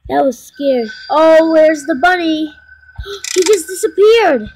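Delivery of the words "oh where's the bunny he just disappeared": alarmed, louder, gasping; panicked searching the cameras; frightened. Real, not acted. Bunny vanished from camera.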